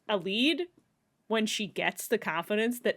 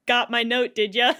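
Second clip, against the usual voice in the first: laughing taunt; 3 semitones higher, 8 dB louder than usual. Acted. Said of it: "Aelin's grin was terrifying".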